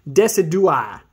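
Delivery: Decidueye sounded out slowly; slow first try at saying Decidueye; tentative pronunciation. Real, not acted. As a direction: carefully attempt the name Decidueye, drawn out. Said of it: "I wanna try to pronounce it".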